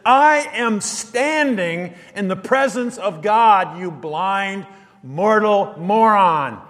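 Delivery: slow, mocking put-down; scornful angel. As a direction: drag out the insult with contempt. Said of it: "the Greek tense is".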